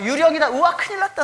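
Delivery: terrified disciples on the boat yelling in a high panic; panicked ghost shriek. Retold or imitated. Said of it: "소리 지르고 막 난리".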